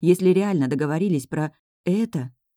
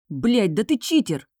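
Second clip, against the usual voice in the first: higher, slow furious outburst; angry bark; 6 semitones higher, slower than usual. A narrator's reading. Fox barking at the stone for cheating, angry. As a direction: bark it at the rival. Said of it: "рявкнул за моей спиной разозлённый Лис".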